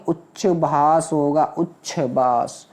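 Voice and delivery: उच्छ्वास said slowly, syllable by syllable; slow deliberate उच्छ्वास, each sound clear; careful spelling-out. Shown as a demonstration. Teacher drills pupils on the word, slowly. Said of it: "उच्छ्वास नहीं".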